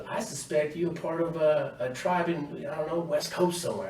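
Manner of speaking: high, sing-song mock sergeant; mock drill sergeant. Drill sergeant taunting recruit in line, high mock friendliness. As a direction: tease him in a high fake-friendly voice. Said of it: "He goes".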